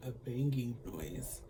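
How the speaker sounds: slow, laughing through the words. Real, not acted. Retelling the show's odd noise, laughing softly.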